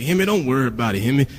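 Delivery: imitated slangy reassurance; a rapper's lingo. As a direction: mimic his run-together lingo, telling someone to relax. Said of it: "his lingo at first".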